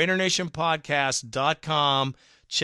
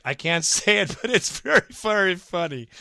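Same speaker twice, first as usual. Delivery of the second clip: laughing through the words, pitch jumping up; cracking up mid-sentence; real laughter breaking into the line; 4 semitones higher, 3 dB louder than usual. Real, not acted. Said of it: "It, it's just funny".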